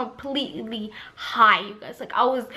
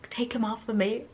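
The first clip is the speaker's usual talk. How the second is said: drowsy plea; 8 dB quieter than usual. Retold or imitated. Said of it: "'Cause I was so high".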